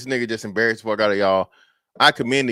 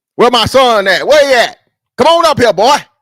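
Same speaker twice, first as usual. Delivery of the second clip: put-on old country man voice, very high, loud, shrill holler; 14 semitones higher, 11 dB louder than usual. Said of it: "talk like an old country nigga on purpose".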